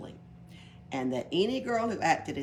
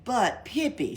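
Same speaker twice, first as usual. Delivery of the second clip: higher, louder impatient call; exasperated teacher calling; 7 semitones higher, 6 dB louder, slower than usual. A narrator's reading. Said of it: "said the teacher impatiently".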